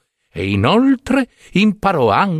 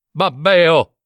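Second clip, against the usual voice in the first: higher, mildly mocking jibe; dismissive taunt; scornful name-calling; 4 semitones higher than usual. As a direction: toss the insult at a silly brother. Brothers scorn the simpleton.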